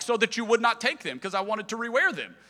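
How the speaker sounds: high, loud mock exasperation; exasperated retort. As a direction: play up the husband's indignant comeback. Retold quarrel over hidden pajama pants.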